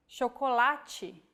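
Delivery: "chocolate" with Portuguese SH; CH sound. Shown as a demonstration. Teacher showing the digraph, "chocolate" with SH. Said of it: "we have the sound".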